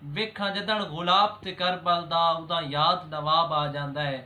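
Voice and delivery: measured Punjabi verse recital; poem recitation. Acted. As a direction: recite a devotional couplet, pausing after each line. (ਠਹਿਰ ਕੇ ਦੋਹੜਾ ਪੜ੍ਹਨਾ)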